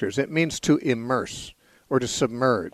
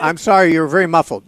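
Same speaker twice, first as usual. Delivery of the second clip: louder, pitched up to be heard; speaking up; 4 semitones higher, 8 dB louder than usual. Real, not acted. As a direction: raise the voice for a bad line. Host speaking up to caller.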